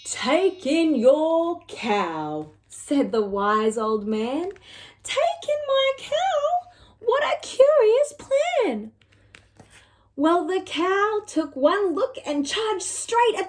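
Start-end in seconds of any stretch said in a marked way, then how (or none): 0.0-2.5 slow, measured advice; a calm sage giving advice; slow wise old man. Acted. Wise old man advises the lady, slow and measured. 5.0-8.9 high, slow outraged cry; an old woman aghast; shocked old lady. Acted. Lady cries out at the plan, high and slow.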